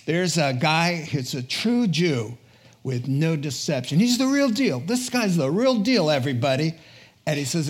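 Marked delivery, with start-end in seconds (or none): 4.0-6.7 excited praise. Acted. Preacher acting Jesus' praise.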